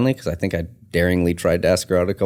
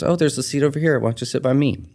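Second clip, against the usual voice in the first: quoted woman; 7 semitones higher, faster than usual. Retold or imitated. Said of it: "she goes".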